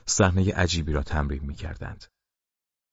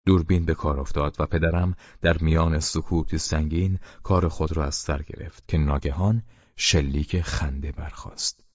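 ordinary delivery, nothing marked

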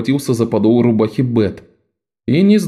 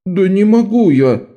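put-on higher, cornered boy's voice; a scared boy refusing; higher frightened refusal; hunted; 9 semitones higher than usual. A narrator's reading. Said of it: "затравленно произнёс Тем".

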